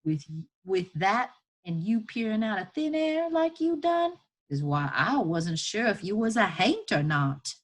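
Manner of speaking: lightly voiced Southern woman, wondering; emphatic folksy woman taking someone's measure; marvelling enslaved woman. Woman looking over a free twelve-year-old, marvelling.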